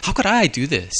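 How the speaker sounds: anguished self-reproach. Retold or imitated. Preacher acting out his shame before God, anguished. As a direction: ask it as if appalled at your own failure.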